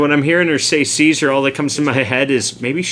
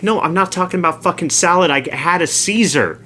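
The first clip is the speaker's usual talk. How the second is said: higher, quick retold protest; exasperated correction; 5 semitones higher than usual. Coworker correcting a mishearing, exasperated. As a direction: imitate a fed-up coworker setting someone straight.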